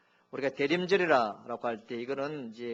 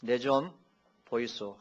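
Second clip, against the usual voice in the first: Gyeongsang dialect; slower than usual. Shown as a demonstration. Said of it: "경상도".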